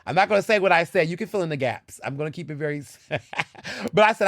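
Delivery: usual speaking voice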